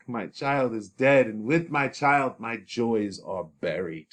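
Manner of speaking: lightly voiced, sorrowful outcry rising on "killed"; a father mourning his dead daughter; father crying over his child; grieving father. Reads Capulet's lament.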